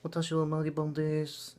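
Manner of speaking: a breezy mock vlogger intro; Magiban impression voice. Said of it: "She'd just, like, say".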